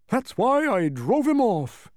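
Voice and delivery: high, loud, slow boast; blustering bug voice, drawn out; fierce cry. A narrator's reading. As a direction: cry it out with hammed-up ferocity. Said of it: "cried the humbug, fiercely".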